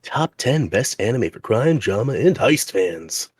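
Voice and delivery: very slow, drawn-out title read; melodramatic reading. Acted. Reading search results to co-host, melodramatic and slow. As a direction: stretch each word out melodramatically. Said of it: "that was melodramatic".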